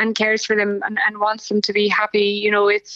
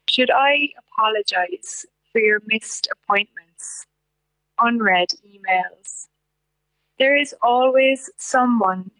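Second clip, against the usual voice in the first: poetry reading. Acted. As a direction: read each line like a poem, letting it settle. Reads her poem aloud.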